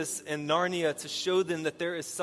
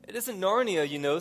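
higher, louder distressed reading, without real sobs; mock tearful plea; 5 semitones higher, 4 dB louder than usual. A narrator's reading. Lucy protests to Aslan at parting, in acted distress. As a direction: act the child's upset, pitched up. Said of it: "sobbed Lucy".

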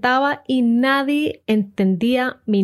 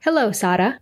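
Sara the Colombian way, SAH-rah; Spanish pronunciation. Retold or imitated. Colombian friends greeting her mom, Spanish-accented name. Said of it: "would say to my mom".

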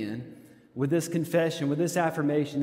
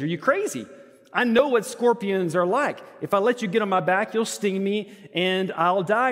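lightly voiced frog; 4 semitones higher than usual. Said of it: "the frog looks at the scorpion and says".

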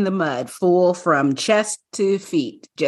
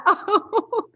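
higher, a light sing-song uh-oh; mimicking woman; 12 semitones higher than usual. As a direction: lightly imitate a stranger's mild alarm. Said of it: "What'd she say".

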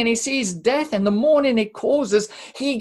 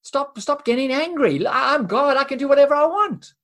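dismissive God; 4 semitones higher, faster than usual. Pretend. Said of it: "by saying".

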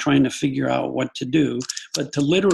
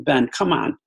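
irritated parent scolding his son, a bit louder; annoyed scolding; 3 dB louder than usual. Retold or imitated. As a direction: nag the kid with rising irritation. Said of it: "talk to him with a little bit of annoyance".

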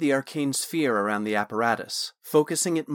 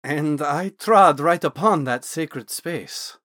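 slow and weighty, slightly louder; slow, grave admission; 3 semitones higher, 6 dB louder, slower than usual. Acted. Naz admitting his trespass to Thorn, slow and weighty. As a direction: let each word land slowly.

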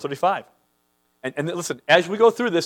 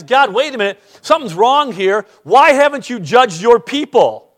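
lightly voiced prophet; 4 semitones higher, 4 dB louder than usual. Habakkuk voiced pleading with God.

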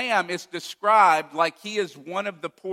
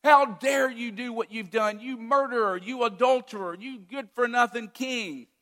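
furious accusing shout; 7 semitones higher than usual. Pretend. Prophet bursting in to condemn the king, furious shout. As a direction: storm in and yell the charges at him. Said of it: "He doesn't barge and knock the door down".

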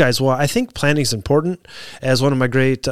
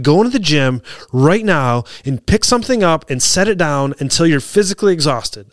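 lost it; 3 semitones higher than usual. Retold or imitated. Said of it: "I lost it on this guy".

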